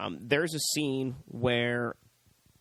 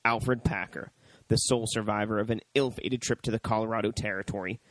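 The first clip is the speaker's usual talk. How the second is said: steady, slightly lower announcer read; DVD blurb read; 3 semitones lower than usual. Real, not acted. Host reading the DVD case to listeners, announcer read. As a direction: read it out like movie back-cover copy. Reads out the DVD back cover.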